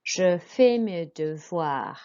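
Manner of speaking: "Je fais mes devoirs" slowly, "fais" without S; careful French for pupils to repeat; model French pronunciation. Shown as a demonstration. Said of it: "So listen".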